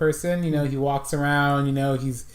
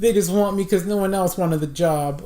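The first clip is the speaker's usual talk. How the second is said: Churchill impression; 4 semitones higher than usual. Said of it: "he talks kinda like this".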